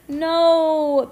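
a high, loud pleading no; begging no. A narrator's reading. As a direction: plead not to be sent home. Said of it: "begged Heidi".

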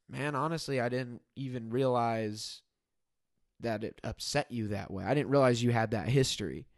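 retold sincere apology. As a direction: own up gently, as in a retold apology.

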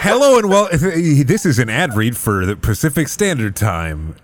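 fake ad read. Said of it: "record a fake ad read".

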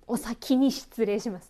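slow, carefully articulated "お先に失礼します"; "お先に失礼します" pronounced with deliberate care; careful practice. Shown as a demonstration. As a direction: test the hard sounds in "お先に失礼します", slowly. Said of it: "確かに言いにくいですね".

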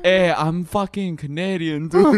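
hammed-up mock Canadian accent; bad Canadian accent. Shown as a demonstration. Showing off his Canadian voice to co-host, hammed-up Canadian accent. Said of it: "I'm clearly bad at accent work".

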